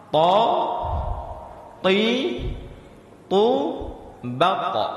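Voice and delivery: "Ta, ti, tu" with the tongue tip on the upper teeth, no breath; crisp ta without air. Shown as a demonstration. Teacher drilling the letter ta with students, crisp. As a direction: tap out "ta" clean and unaspirated. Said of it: "bagaimana cara mengucap huruf ta".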